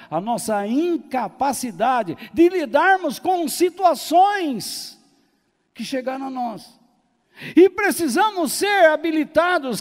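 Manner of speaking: high, loud pulpit proclamation; forceful preaching. Real, not acted. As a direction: preach at full voice, easing at the end. Pregação em força total. (pregação a plena voz, aguda e enfática)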